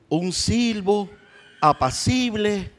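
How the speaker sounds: gentle lingering. Acted. Preacher reading the verse, slow and gentle. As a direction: let the still small voice linger.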